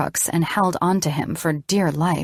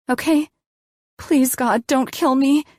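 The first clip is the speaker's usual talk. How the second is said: much higher, frightened plea; pleading; 8 semitones higher than usual. A narrator's reading. Terrified patient pleading with the doctor, high. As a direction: beg him for your life.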